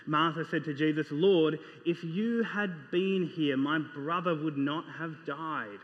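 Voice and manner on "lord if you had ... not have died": slow, understated grief in the voice; pained. Acted. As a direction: read Martha's plea with restrained pain. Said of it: "do you hear the pain in her voice".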